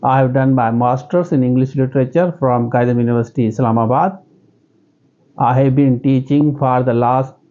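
slow, plain interview answer with pauses; simple interview answer. Shown as a demonstration. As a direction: answer slowly and simply, in your own accent. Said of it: "आप simply बताएंगे". (धीमा, सीधा interview जवाब)

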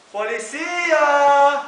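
slow, drawn-out call; calling for police. Pretend. Victim calls out for the police. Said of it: "yo llamo al policía".

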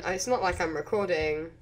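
sarcastic sing-song it's not like I'm recording; odd sing-song delivery. Real, not acted. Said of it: "Why do I say it like that?".

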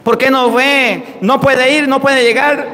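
pained reproach. Retold or imitated. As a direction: imitate a priest's hurt reproach. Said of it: "como con dolor, sin regaño". (reproche dolido, imitado)

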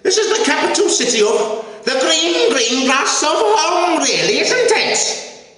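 A famous singer. Acted. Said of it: "a famous singer in one way would put it".

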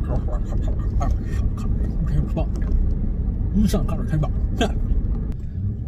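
slow, drawn-out British movie-spy accent; Sean Connery. Shown as a demonstration. Driver amusing himself with an impression, Sean Connery accent. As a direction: play with a famous actor's British accent. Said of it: "went to Sean Connery very quickly".

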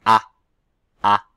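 "A" said with a wide open mouth; sound A. Shown as a demonstration. Teacher showing pupils the "A" with her mouth. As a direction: shape the vowel "A" clearly for pupils to watch. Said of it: "Regardez ma bouche".

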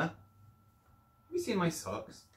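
high, slow put-on lady's voice; slowly voiced Missus Jordan; Missus Jordan's voice. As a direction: draw it out as the fussy lady. Rereading Missus Jordan's line.

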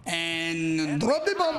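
low, slow, dragged out menace; a slow, low movie-trailer drop; drop the bomb. Pretend. Taunting the enemy squad, low and slow. Gamer dramatic repeated taunt.

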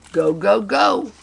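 loud, high chant; storyteller's rousing cheer; cheering crowd. A narrator's reading. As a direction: chant it out to spur the racer on.

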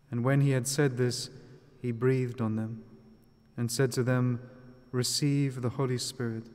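measured, solemn scripture reading; Gospel reading. Acted. Reads the Gospel aloud.

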